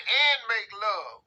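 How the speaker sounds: slow, high and loud whiny drawl; whiny lover. Acted. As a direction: drag each word out like a needy whine. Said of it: "What does that sound like?".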